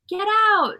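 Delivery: high, loud mock yell; imitated screaming. Critic urging a Scientologist to leave, mock screaming. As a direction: stretch it into a heckler's shout. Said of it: "like screaming".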